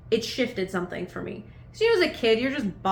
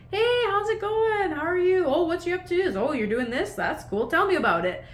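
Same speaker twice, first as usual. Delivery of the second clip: mock extrovert; 9 semitones higher than usual. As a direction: play the over-friendly stranger. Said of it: "not the same level of just like".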